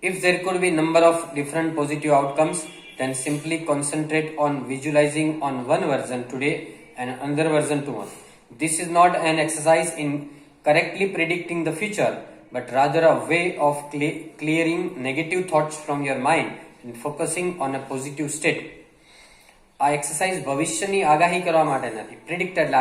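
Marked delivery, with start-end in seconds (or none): 0.1-8.1 reads the English line very slowly, word by word; slow dictation reading. Acted. Teacher reading a passage slowly to Gujarati learners. 8.6-18.6 reads the English line very slowly, word by word; slow dictation reading. Acted. Teacher reading a passage slowly to Gujarati learners.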